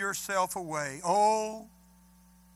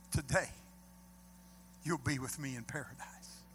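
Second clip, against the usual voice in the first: tender promise; 5 semitones lower, 8 dB quieter than usual. Retold or imitated. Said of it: "Jesus said".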